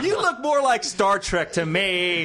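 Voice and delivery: slow, laughing through it. Retold or imitated. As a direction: laugh while quoting the director.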